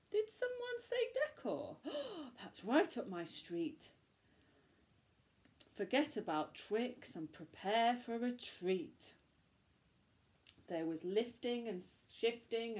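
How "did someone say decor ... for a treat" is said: delighted pumpkin. Acted. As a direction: burst in with excitement. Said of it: "pumpkin delighted".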